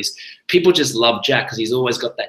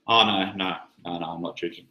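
much softer, lower, meek refusal; timid; 6 semitones lower, 7 dB quieter than usual. Shown as a demonstration. Refusing a drink, meek and fading. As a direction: fade away nervously. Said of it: "absolute confidence".

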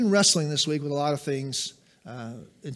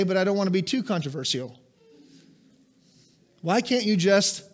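normal talking voice

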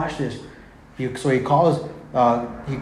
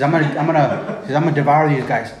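louder, laughing mock threat; threat as God; 5 dB louder, faster than usual. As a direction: play God's warning with a grin.

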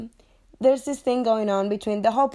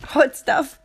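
Hot Stuff said higher and louder through a laugh; 5 semitones higher, 5 dB louder than usual. Shown as a demonstration.

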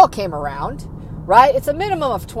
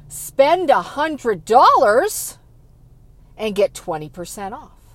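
sales pitch; 3 semitones higher, 4 dB louder than usual. Retold or imitated. Mimics retailer sales pitch.

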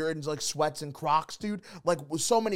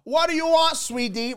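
imitating the crush; 11 semitones higher than usual. Bagel lady asking customer's order, mimicked high voice. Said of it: "or however they talk".

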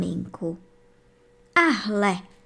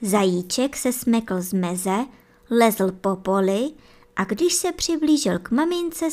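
usual speaking voice

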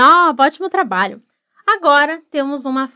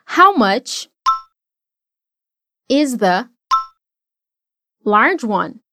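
word by word; much slower than usual. Shown as a demonstration. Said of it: "Agora repete comigo".

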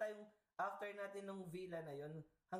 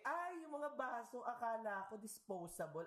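a teasing fake-innocent reply; mock innocent; 6 semitones higher than usual. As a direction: play dumb sweetly, drawing out the start. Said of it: "Sabi ko".

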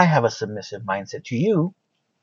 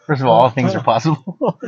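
put-on Mexican accent; 4 dB louder than usual. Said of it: "really thick Mexican accent".

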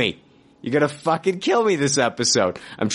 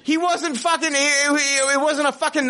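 indignant rant; 8 semitones higher than usual. Acted. Ranting at Scott.

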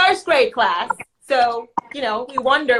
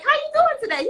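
sweet counselor voice; 14 semitones higher than usual. Retold or imitated. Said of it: "I'm like".

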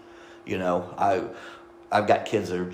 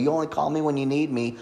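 higher-pitched mild frustrated complaint; retold frustration; 5 semitones higher than usual. Father to the daughter who rarely calls, retold frustration. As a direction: replay a hurt complaint, pitched up. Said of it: "then frustrated and go".

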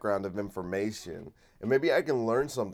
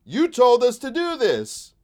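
much higher, louder, slow whiny plea; Zelensky pleading; 13 semitones higher, 9 dB louder, slower than usual. Retold or imitated. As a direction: wail it like an abandoned ally. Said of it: "So he's going around being like".

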